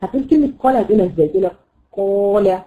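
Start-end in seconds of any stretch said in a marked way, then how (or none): 2.0-2.6 قال with an over-pressed, Ta-like first sound; qaf mispronounced like Ta. Shown as a demonstration. Teacher showing beginners' over-closed qaf, mispronounced like Ta. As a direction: say قال as if it began with heavy ط. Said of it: "عامل زي ما تكون حرف الطاء".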